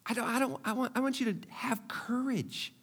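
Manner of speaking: whisper. Real, not acted. Pastor pleading with the congregation in a whisper. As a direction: lean in and whisper it. Intimate plea in sermon.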